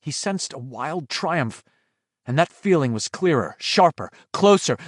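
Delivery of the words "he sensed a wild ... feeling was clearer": usual speaking voice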